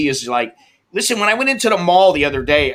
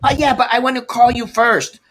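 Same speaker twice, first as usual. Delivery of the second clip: higher, sheepish clerk excuse; mock clerk voice; 8 semitones higher than usual. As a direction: act out the clerk's lame excuse. Clerk's reply quoted.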